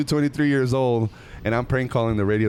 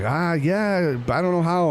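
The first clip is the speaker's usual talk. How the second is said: sheepish reply; 7 semitones higher than usual. Retold or imitated. Shy reply to comedian.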